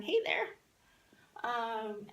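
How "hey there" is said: loud, very high-pitched hail; calling out hello. Acted. Teacher demonstrating a greeting across the room, high loud call. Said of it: "saying hi to someone across the room".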